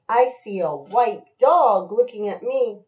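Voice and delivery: loud, measured storybook answer; emphatic picture-book line; reading to a child. Acted. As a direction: punch the animal's name for a child.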